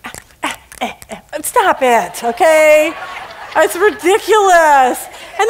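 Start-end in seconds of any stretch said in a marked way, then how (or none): 0.0-1.4 dismissive attitude. Retold or imitated. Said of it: "giving people attitudes like".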